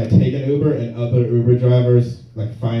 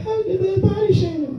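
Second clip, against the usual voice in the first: much higher, whiny mock outrage; mock tweeter; 4 dB quieter than usual. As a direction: parody an offended tweet.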